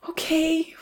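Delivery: put-on high, girlish grateful okay. A narrator's reading. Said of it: "Rosa said gratefully".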